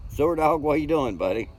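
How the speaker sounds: high, loud, eager hello to a friend; excited greeting. Real, not acted. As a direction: call out happily to the viewer. Greeting a viewer in chat.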